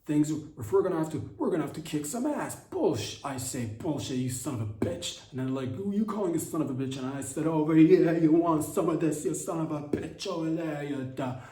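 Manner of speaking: high, pushed mock tough-guy bluster; Gavin Newsom impression. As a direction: puff up and bark like a fake brawler. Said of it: "this is my impression of Gavin Newsom".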